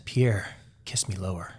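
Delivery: hushed, breathy come-on whisper. Retold or imitated. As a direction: whisper the invitation. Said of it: "Maria whispers".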